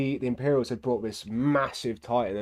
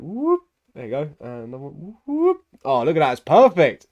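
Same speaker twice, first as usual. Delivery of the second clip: delighted; 5 semitones higher, 9 dB louder than usual. Real, not acted. Delighted at own painting.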